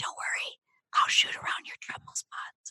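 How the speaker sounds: barely audible, very quiet whisper. Retelling what a cameraman whispered to the speaker during filming, retelling a whisper. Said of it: "And he whispered to me".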